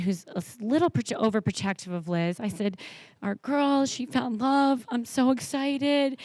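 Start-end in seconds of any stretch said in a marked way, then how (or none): 3.2-6.2 slow, higher, gushing announcement; excited and dramatic. Retold or imitated. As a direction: tell your husband the big news with delight. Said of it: "excited and dramatic as I can be".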